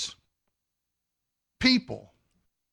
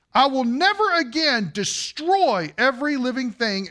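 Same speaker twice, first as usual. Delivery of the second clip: NEVER AGAIN pitched up and stressed; emphatic; 5 semitones higher, 3 dB louder than usual. Retold or imitated. Preacher showing why God repeats it, emphatic. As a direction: proclaim the vow, leaning hard on "never again".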